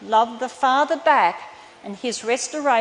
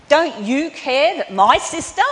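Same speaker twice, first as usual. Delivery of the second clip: louder, higher, indignant reproach; accusing complaint; 4 semitones higher, 7 dB louder than usual. Retold or imitated. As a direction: Martha accusing Jesus about her sister, loud. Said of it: "she accused".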